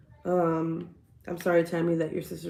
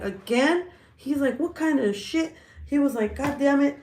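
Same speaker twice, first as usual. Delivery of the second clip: imitating dad; 7 semitones higher, 4 dB louder than usual. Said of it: "my dad's like".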